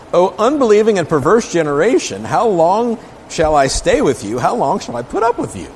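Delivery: a weary master losing patience; exasperated rebuke. Acted. Preacher voicing Jesus' rebuke.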